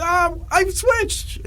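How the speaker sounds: very high, slow mock pride; proud reply. Teen tells bullies he switched, slow proud whine. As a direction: drag it out, showing off. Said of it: "And I'm like".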